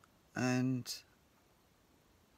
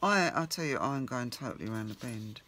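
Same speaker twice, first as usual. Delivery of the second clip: loud, frustrated burst of words; exasperated outburst; 7 dB louder than usual. Real, not acted. Crafter fed up with her page layout, exasperated loud outburst. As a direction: blurt it out, at your wits' end.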